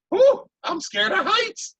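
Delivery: high, slow relieved little voice; slow high-pitched phew of relief; relieved otter. Acted. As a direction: breathe out the relief after the fall. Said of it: "He goes".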